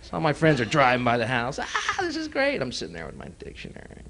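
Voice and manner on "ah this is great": high slow sarcastic groan; mock delight. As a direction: drip sarcasm. Sarcastic kid with dictionary.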